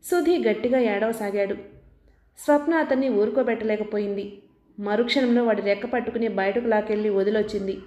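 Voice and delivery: usual speaking voice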